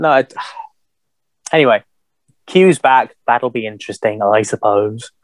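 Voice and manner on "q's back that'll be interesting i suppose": unenthused. Retold or imitated. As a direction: shrug it off, underwhelmed. Repeats his earlier reaction, now deflated.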